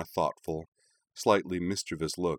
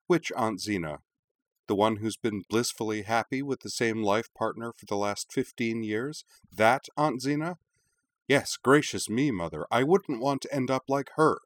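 snapped; 4 semitones higher than usual. Acted. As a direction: bite back at her mother. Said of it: "Azana snapped".

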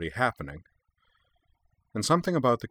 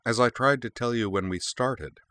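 a touch of weary over-patience; mildly strained patience; exaggerated patience; 5 semitones higher than usual. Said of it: "with exaggerated patience".

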